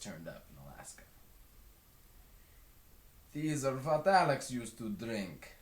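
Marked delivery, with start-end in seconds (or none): 3.3-5.5 lightly voiced plainspoken man, a touch higher; Westerberg's voice. A narrator's reading. Narrator voicing Westerberg at the bar, lightly done. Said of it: "says Westerberg with a frown".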